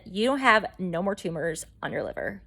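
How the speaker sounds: measured, matter-of-fact doctor delivering results. Retold or imitated. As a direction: restate it soberly, as a doctor would. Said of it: "He's more professional than that".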